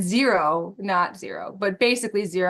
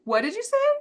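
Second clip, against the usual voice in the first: shocked; 12 semitones higher than usual. Retold or imitated. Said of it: "we're like".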